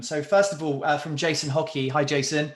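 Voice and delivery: upbeat announcer welcoming a caller; bright, punchy on-air radio intro; radio host voice. Pretend. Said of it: "oh, I sound like a radio host".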